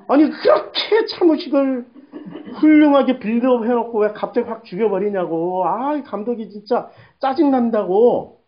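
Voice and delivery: mildly exasperated griping; retold irritation. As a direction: replay your grumbling at the film's director. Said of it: "내가 왜 이렇게 짜증내지".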